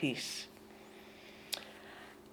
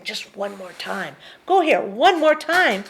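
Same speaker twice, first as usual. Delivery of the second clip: the nagging mind; 5 dB louder than usual. Retold or imitated. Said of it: "the mind is always saying".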